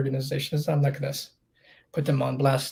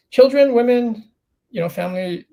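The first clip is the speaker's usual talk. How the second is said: emphatic outburst; 8 semitones higher, 7 dB louder than usual. Real, not acted. Insisting on street etiquette.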